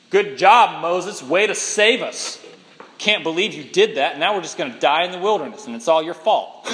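mock-grateful sarcasm, dripping with complaint; sarcastic grumbling Israelites. Israelites sarcastically thanking Moses for nothing. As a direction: thank Moses while blaming him for everything. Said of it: "they say".

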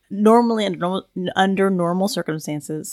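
slightly tipsy, loose delivery; talking after sipping wine. Real, not acted. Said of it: "I'm drinking wine right now".

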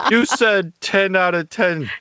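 high-pitched, put-on wounded protest; mock hurt. Host protesting co-host's teasing about the segue, mock hurt. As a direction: play up the indignation, voice way up high.

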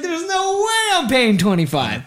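exaggerated no-way protest, voice jumping up; retold indignant refusal. Retells his refusal of a price.

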